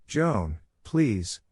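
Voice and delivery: mild call after someone. Acted. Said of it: "Zion called out for her".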